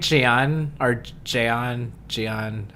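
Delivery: "Gian" tried slowly as jee-AHN and jay-AHN; slow, tentative "Gian"; trying out pronunciations. Shown as a demonstration. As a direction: sound out "Gian" slowly, unsure of the first vowel. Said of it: "I think".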